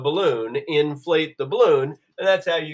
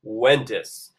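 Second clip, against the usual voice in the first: breathy whooshing wind sound; windy whoosh; 5 semitones lower than usual. Shown as a demonstration. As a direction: blow it out like wind. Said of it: "make a noise like this".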